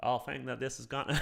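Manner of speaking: softly attempted Texan twang; dodgy Texan accent. Streamer asking chat for tips, tentative Texan accent. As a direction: feel your way into a Texas accent. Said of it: "Any tips on the Texas accent?".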